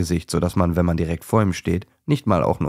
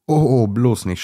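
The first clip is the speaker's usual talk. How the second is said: laughing cry; 5 semitones higher, 5 dB louder, slower than usual. A narrator's reading. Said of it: "schreit Trixi lachend auf".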